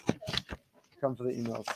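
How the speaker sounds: softly repeating the line; soft aside. Shown as a demonstration. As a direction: hush it as a tender aside. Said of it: "and the tissues that have to be close by".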